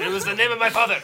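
put-on Russian accent. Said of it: "He's Russian".

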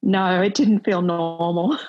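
slow answer breaking into a real laugh; amused laughing. Real, not acted. Mother admitting new-baby life felt far from normal, amused laughing. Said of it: "I'm laughing because".

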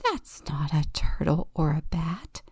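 fast, eager hushed telling; bubbling over in a whisper; excited whisper. Acted. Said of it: "Octopus whispers excitedly".

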